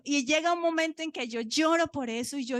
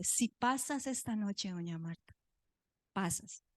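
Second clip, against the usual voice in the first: hushed, lowered bedside warning; retold grave doctor; 2 semitones lower, 6 dB quieter than usual. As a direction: lean in and say it quietly. Doctor leans in with grave news.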